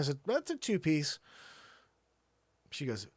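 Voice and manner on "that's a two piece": higher, louder punchline; pointed reveal. Retold or imitated. Husband telling wife the couch shrank, pointed. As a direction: let the news land.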